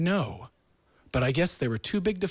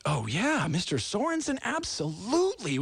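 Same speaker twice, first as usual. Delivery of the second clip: lightly voiced bank rep; 6 semitones higher than usual. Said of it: "they're like".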